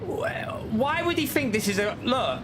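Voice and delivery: disbelief. Real, not acted. Watching replay of bad braking.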